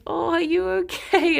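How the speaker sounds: light caring voice for Alex; concerned boyfriend. Retold or imitated.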